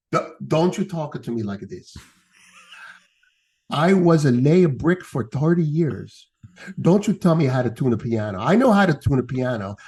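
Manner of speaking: put-on indignant old bricklayer with lisp; broken English. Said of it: "broken English with a lisp".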